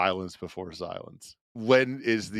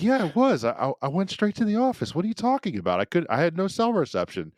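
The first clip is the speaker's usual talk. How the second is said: high-pitched, protesting imitation of a husband; mock indignant excuse in a raised voice; defensive husband; 9 semitones higher, faster than usual. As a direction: act out a cheater insisting on his alibi. Acted cheating husband insisting on alibi.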